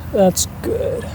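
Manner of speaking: breathed out under the breath; half-whispered in awe; awed whisper. Real, not acted. Staring at the clear headlight, whispering in awe.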